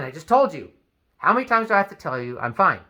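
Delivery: angry complaint. Retold or imitated. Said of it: "Now you're angry".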